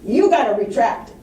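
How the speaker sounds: slow, indignant rebuke as the angry engineer; a slow, half-hammed fuming complaint; retold anger. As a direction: play the offended engineer, dragging out the outrage. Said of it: "and he was pissed".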